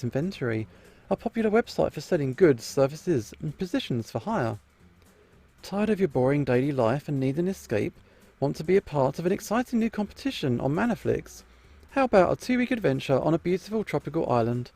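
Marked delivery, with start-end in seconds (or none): 5.6-14.7 upbeat commercial voiceover; ad read. Acted. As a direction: sell it like a TV ad. Reads the casting advertisement.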